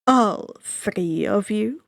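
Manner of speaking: suave ferryman. Acted. Ferryman of the dead greeting the boy, slow and silky. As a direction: savor each word like a sly host. Charon asks.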